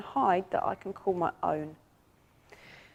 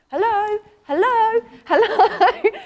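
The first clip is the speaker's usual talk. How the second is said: very high, louder hellos; dragon calling out; 12 semitones higher, 8 dB louder, slower than usual. Acted. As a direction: call out like a pet demanding attention. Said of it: "came to the front of the tank and banged on the glass".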